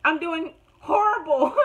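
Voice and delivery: near-crying wail, high and loud; half-crying, dramatic despair. Retold or imitated. Retold panic during exam.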